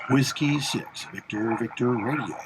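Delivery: lightly done radio operator voice; a hint of a practiced radio call; ham radio voice. Shown as a demonstration. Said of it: "I'm trying to use my good ham radio voice".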